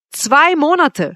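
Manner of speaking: slow, high, loud exclamation; crying out. A narrator's reading. Suitor hearing how briefly she could love him, crying out. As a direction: cry it out, aghast. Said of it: "schrie ich auf".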